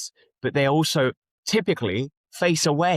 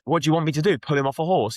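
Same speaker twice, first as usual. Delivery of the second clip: raised-pitch imitation of an officer; lightly voiced police officer; 5 semitones higher, 4 dB louder, faster than usual. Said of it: "the police officer says".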